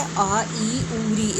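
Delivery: short vowels rattled off quickly; brief, unheld vowel sounds. Shown as a demonstration. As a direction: read the short vowels off briskly. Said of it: "फटाफट पढ़ लिया".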